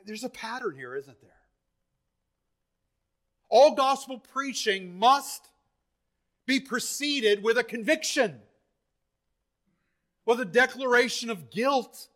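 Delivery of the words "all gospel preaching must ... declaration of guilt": insistent, higher-pitched preaching; forceful, measured insistence. Real, not acted. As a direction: declare the rule emphatically from the pulpit.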